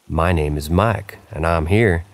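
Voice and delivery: slow, lightly Southern ghost voice; a mild Southern drawl on the ghost's words; Southern accent. Retold or imitated. Narrator slipping into a Southern accent quoting the ghost. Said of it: "Oops, I said it with a Southern accent".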